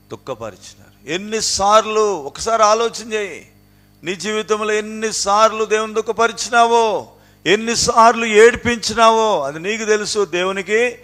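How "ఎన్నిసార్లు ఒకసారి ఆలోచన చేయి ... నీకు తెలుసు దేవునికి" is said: higher and louder, pressing each question hard; fiery preaching. Acted. Preacher urging listeners to count their sins, fiery preaching. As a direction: drive the question home like a revival preacher.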